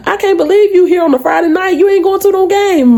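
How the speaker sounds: high, playful teasing; teasing regulars. Retold or imitated. Regulars teasing her about skipping the game, high and playful. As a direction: rib her like a friendly regular. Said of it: "regulars talking".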